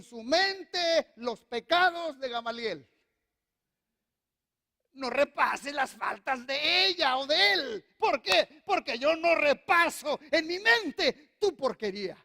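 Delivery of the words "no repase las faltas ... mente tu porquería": God speaking. Retold or imitated. Voicing God to the listener.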